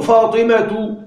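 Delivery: فاطمة said slowly as "fatimatu"; damma without tanween. Shown as a demonstration. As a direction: end فاطمة on a drawn-out -tu, no n. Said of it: "بدون تنوين". (فاطمة بضم التاء بدون تنوين)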